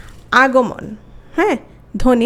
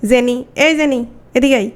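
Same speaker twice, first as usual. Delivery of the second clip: calling out a name. Shown as a demonstration. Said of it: "বলা হলো জেনি".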